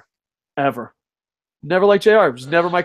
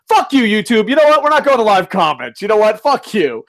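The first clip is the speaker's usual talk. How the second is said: raised-pitch angry rant; angry outburst; 5 semitones higher, 5 dB louder than usual. Real, not acted. Streamer ranting at YouTube over live comments, angry outburst. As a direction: tell the website off, loud and high.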